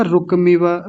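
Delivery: रुकमिव as ruk-miva, no a after k; mispronounced रुकमिव. Retold or imitated. Teacher quoting what students said, रुकमिव missing its ka vowel. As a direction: jump from k straight to m in रुकमिव. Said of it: "लोगों ने क्या बोला".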